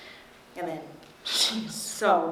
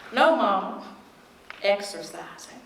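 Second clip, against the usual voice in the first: faking normal. Acted. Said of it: "try to sound normal on the phone".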